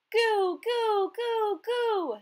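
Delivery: high, loud hen call; girl calling her hen home; top-of-voice call. A narrator's reading. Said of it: "she called at the top of her voice".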